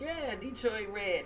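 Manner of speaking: slow drawn-out echo of the name; echoing radio voice. Pretend. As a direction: repeat it slowly, half announcing. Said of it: "since you got the radio voice".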